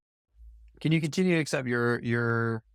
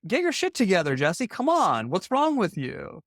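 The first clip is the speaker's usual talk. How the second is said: sharp, higher pushy drill-sergeant bark at himself; harsh self-talk; 5 semitones higher than usual. Retold or imitated. Coach reenacting his harsh self-scolding voice, pushy bark. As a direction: bark the order like a tough coach. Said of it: "I was like".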